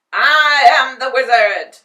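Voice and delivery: huge loud roar; roaring beast. A narrator's reading. Beast roars at the Tin Man, loud. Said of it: "roared the beast".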